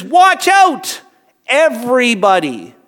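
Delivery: high, loud call to everyone; urgent warning. Retold or imitated. Jesus warns a group of people, loud and urgent. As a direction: call out the alarm to all. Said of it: "very aggressive with his words".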